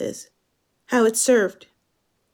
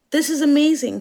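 put-on euphoric British accent, higher; gushing British man; 4 semitones higher than usual. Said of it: "Kinnock says".

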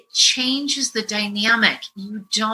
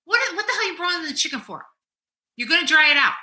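higher, fast exasperated snap; tired wife snapping at husband's cooking; irritated snap; 7 semitones higher, much faster than usual. Retold or imitated. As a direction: bite off the question impatiently. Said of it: "I'm fucking tired".

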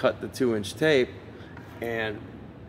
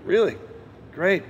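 barely contained excitement; 9 semitones higher, 3 dB louder than usual. Retold or imitated. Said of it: "trying to keep it together".

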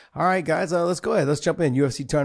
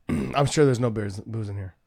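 stuttering; 4 semitones lower than usual. Real, not acted. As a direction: trip over the words. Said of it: "As I'm stuttering".

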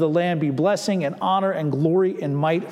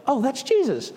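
excited recognition; 9 semitones higher than usual. Acted. John's exclamation of recognition retold.

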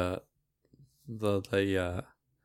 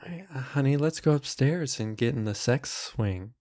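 seductive mom voice; 5 dB quieter than usual. Acted. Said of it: "I'll be the mom".

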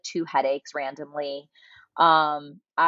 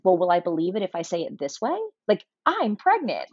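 testing a voice; 3 semitones higher than usual. Retold or imitated. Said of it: "trying out all my different voices".

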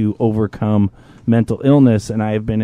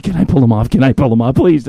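eager pleading; faster than usual. Retold or imitated. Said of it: "she's like".

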